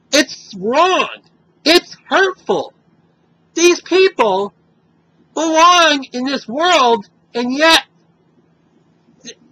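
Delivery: indignant and pushing hard against the slur; upset, angry. Real, not acted. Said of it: "I'm upset and I sound angry".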